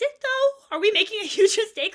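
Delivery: anxious friend spiraling out loud, panicking; panicked. Acted. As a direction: spiral into alarm.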